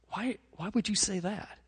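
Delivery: soft, hesitant question; gentle concern. Retold or imitated. Youth pastor responding to hurting Johnny, softly concerned. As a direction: retell a quiet, troubled response. Pastor answers crying boy in story.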